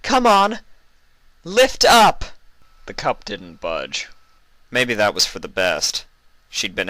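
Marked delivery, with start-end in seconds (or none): 0.0-2.3 high, loud, willing it up; high strained Luna command; straining Luna. Acted. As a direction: push the words like lifting with the mind. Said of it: "she willed it".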